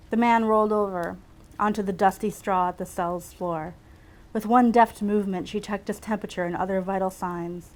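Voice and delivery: measured read-aloud storytelling; story narration. A narrator's reading. Writer reads her own medical story aloud, measured narration. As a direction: read it out like a novel excerpt.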